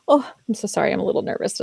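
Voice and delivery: mock nervous apology, starting high and tailing off; apologetic. Speaker apologizing to the audience on stage, apologetic. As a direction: act out a flustered, over-sorry speaker. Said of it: "being apologetic about it".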